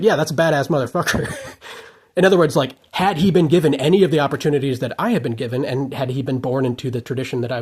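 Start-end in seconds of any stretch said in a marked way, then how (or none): 0.0-1.3 admiring, through a laugh; laughing admiration. Retold or imitated. Rachmaninoff after hearing a jazz pianist, laughing with admiration. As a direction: say it laughing with delight. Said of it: "is like".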